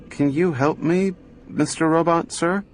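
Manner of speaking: put-on high, polite child asking; small girl's plea. A narrator's reading. Gloria politely begging the robot for help. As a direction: ask sweetly and carefully. Little girl asks the robot.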